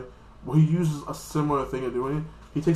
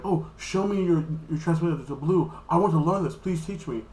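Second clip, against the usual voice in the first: mock pleading girl; 4 semitones higher than usual.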